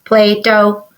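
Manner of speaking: flat robotic syllables. Shown as a demonstration. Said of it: "Did you talk like a robot?".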